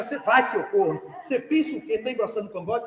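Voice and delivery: chuckling retelling of the order; laughing mother quote. Retold or imitated. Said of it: "Comigo era".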